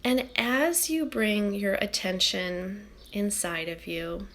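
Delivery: calm, unhurried meditation guiding; soothing guide settling a group into stillness; guided meditation. Acted. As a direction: ease listeners inward with long, settled pauses.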